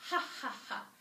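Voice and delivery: spelt-out, acted ha-ha-ha; mock laughter. A narrator's reading. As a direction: fake a spaced-out laugh. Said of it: "starts laughing".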